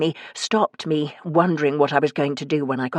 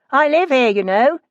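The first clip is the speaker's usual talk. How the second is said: indignant call; 9 semitones higher, 5 dB louder than usual. Acted. Calling after departing landlord.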